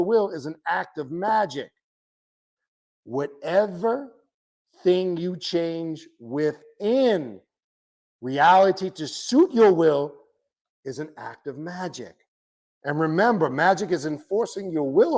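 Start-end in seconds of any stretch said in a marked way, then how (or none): 3.0-12.1 slowly, with long pauses between phrases; slow, deliberate emphasis. Real, not acted. Teacher repeats a definition of magic to followers, slow and deliberate. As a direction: spell it out phrase by phrase.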